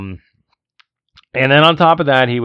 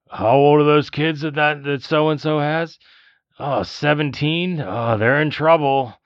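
higher, lightly voiced chatter of a rude moviegoer; mock chatty moviegoer; 5 semitones higher, slower than usual. Friend mimicking the rude moviegoer's chatter, lightly voiced higher. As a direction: play the oblivious loudmouth a notch up. Imitating chatty guy in theater.

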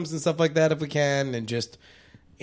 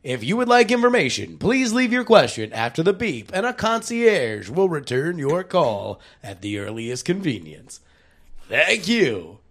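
answering machine voice; 3 semitones higher than usual. Pretend. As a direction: read it like a recorded greeting. Mock concierge answering machine message.

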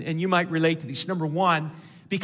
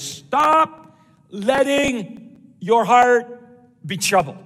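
loud, high, very slow command; strong, emphatic command; 4 semitones higher, 6 dB louder, much slower than usual. Shown as a demonstration. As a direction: hammer out each word forcefully. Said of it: "it's really strong in the original language".

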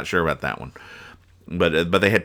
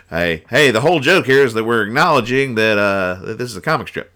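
smug artist. Retold or imitated. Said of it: "That's how I feel the artist".

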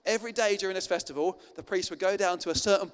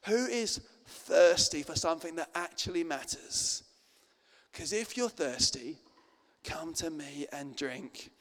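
gentle invitation; slower than usual. Retold or imitated. Jesus voiced, quiet invitation.

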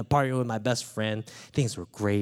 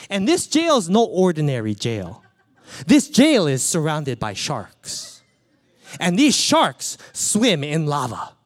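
laughing; 2 semitones higher, 6 dB louder than usual. Real, not acted. Building the absurd scene, laughing.

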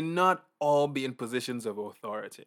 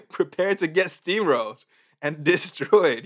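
mock vengeful glee; 5 dB louder than usual. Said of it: "be like".

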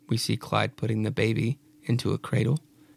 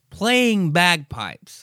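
drawn-out mock awe; 5 semitones higher, 4 dB louder, much slower than usual. Real, not acted.

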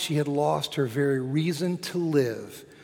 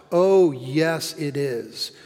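raised, ringing proclamation that settles at the end; triumphant cry; 4 dB louder than usual. Acted. Preacher voicing Easter crying out its answer, triumphant cry. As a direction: proclaim it with punched key words. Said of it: "And Easter cries out".

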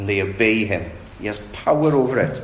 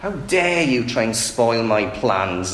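indignant rebuke. Acted. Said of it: "It's almost as if Jesus is saying".

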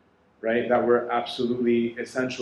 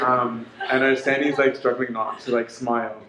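normal talking voice

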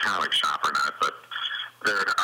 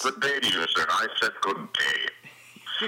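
dignitary; slower than usual. Pretend. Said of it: "it makes me sound like a dignitary".

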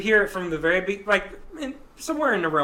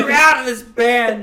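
mock band boss; 6 semitones higher, 10 dB louder than usual. Joking about kicking out bandmate.

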